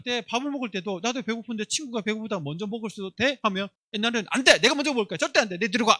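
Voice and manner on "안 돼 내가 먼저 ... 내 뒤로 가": put-on bossy kid's yell, a bit louder; mock greedy child shouting at a friend. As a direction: shove the other kid back, mock angry. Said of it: "이렇게 했는데".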